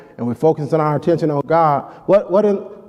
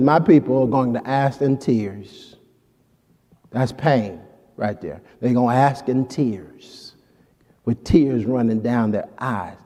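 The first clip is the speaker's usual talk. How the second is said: softer, lower, grieving tone; sorrowful hush; 4 semitones lower, 5 dB quieter than usual. Acted. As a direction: let the pain sink the voice. Pain of weeping in tears.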